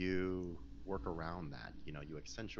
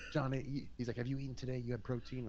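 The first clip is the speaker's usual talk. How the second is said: a lightly voiced trainer, pitched higher; quoting the coach's fussing, a bit higher; concerned trainer; 7 semitones higher than usual. Trainer asking Johnny about protein, lightly voiced concern.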